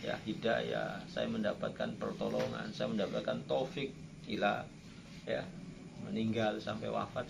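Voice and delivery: humble whispered prayer. Acted. Voices a humble prayer to God.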